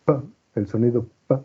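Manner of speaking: "p" said as a bare sound, quick; voiceless p demo. Shown as a demonstration. Teacher showing the "p" sound to students. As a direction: pop out "p" with no vowel. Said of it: "cuando tú dices".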